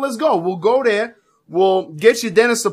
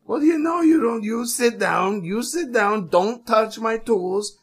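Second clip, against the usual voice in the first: mock stern dentist; 3 semitones higher, slower than usual. Dentist scolding patient.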